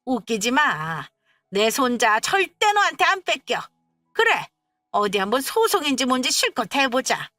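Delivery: mother-in-law screeching threats at her daughter-in-law while pulling her hair. A narrator's reading. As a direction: rage at the daughter-in-law, pitch rising to a scream. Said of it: "악다구니를 썼습니다".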